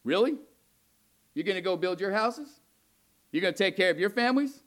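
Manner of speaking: mock-incredulous rhetorical questions; sarcastic. God mocking the remnant who build their own houses, sarcastic. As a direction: voice God needling his people with sarcasm. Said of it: "It's somewhat sarcastic".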